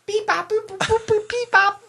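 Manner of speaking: high chirpy droid babble; beep boop robot. Pretend. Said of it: "the baby goes".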